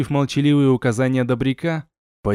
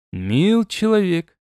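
slow, higher, smiling address; 5 semitones higher, slower than usual. A narrator's reading. Hero sweet-talks the soldier on the wall, smiling. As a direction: draw it out with a smile. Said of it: "улыбнулся я".

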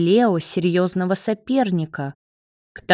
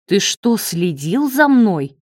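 taken aback; 2 semitones higher than usual. Acted. David discovers Marat followed him, stunned and taken aback. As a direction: caught off guard, disbelieving. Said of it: "оторопел Давид".

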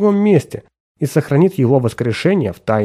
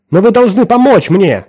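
much higher, louder desperate cry; shouting; 9 semitones higher, 6 dB louder than usual. A narrator's reading. Woodford begging his old boss on the phone, shouting. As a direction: plead at the top of your voice. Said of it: "кричал Вудфорд".

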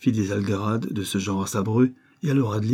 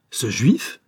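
shocked, breathless whisper; indignant outcry; 3 dB louder than usual. A narrator's reading. Mother aghast at the suitor's religion, whispered outrage. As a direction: gasp it out in disbelief. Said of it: "s'écria la maman ... l'indignation".

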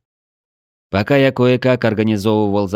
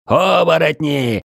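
high, drawn-out alarm shout; warning cry; 12 semitones higher, 5 dB louder, slower than usual. A narrator's reading. Watchman on the wall warns retreating warriors, long high shout. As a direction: call the alarm from afar, climbing higher. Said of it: "Предупреждающий крик со стены".

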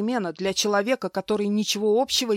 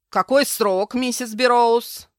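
businesslike; 4 semitones higher, 7 dB louder, slower than usual. Acted. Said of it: "деловито поинтересовался".

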